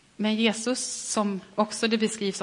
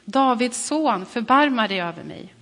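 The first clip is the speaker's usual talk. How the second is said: crying out even louder; 4 semitones higher, 6 dB louder than usual. Acted. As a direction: call out louder, stretching Davids son. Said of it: "ropade bara ännu mer".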